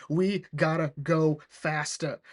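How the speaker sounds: slow, drawn-out mock panic; freaking out. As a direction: stretch each word in hammed-up urgency. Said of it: "Blackheart's freaking out".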